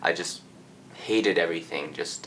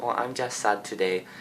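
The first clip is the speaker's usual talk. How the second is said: raised, small mock-sad voice; imitated tearful reply; 5 semitones higher than usual. Crying student answers the security officer, imitated tearful voice. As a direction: play at being tearful, pitched up. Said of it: "I was, like, crying".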